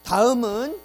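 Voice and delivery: a guide moving tourists on; mock tour guide. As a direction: announce the next stop to the group. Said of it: "이러고 간다며요".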